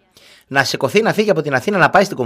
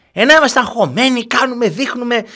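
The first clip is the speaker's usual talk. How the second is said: mocking imitation; 11 semitones higher than usual. Mocking the mother's worry.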